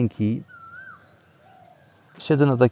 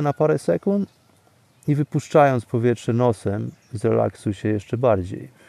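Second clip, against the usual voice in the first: right in your ear. Acted. Guides breathing, close and soft.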